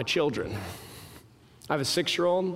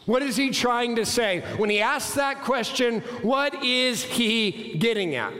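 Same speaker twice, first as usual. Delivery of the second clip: raised, probing sermon questions; emphatic preaching; 6 semitones higher than usual. Acted. Preacher probing what Jesus meant, emphatic. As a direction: press each question in a higher pitch.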